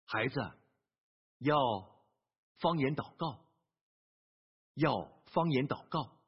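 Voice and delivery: hushed, deep-pitched divine instruction with long pauses; voice of God. Retold or imitated. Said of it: "神对他说".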